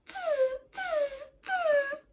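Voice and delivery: very high, soft monkey tsk-tsk; mock the peddler like a little monkey; monkeys chattering. A narrator's reading. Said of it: "the monkeys ... said".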